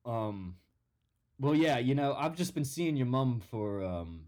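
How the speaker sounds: put-on lightly done Australian accent; a hint of an Aussie stepdad; Australian dad. Stepdad talking to the son in a light Australian accent. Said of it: "I'm not even from Australia".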